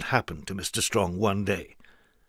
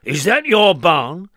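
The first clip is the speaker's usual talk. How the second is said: slow, higher, louder question; eager question; 6 semitones higher, 7 dB louder than usual. Acted. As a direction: ask with eager interest. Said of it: "he asked the farmer".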